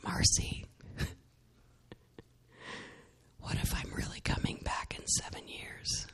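soft, airless whisper, barely there; God's voice whispered. Retold or imitated. Yahweh gently asking Marcy a question, in a whisper. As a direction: whisper it like a voice heard inside. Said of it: "I heard Yahweh just say".

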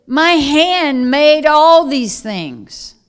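slow, loud proclamation as God; God's forceful declaration. Acted. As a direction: declaim it with a creator's authority. Preacher declaims God's retort.

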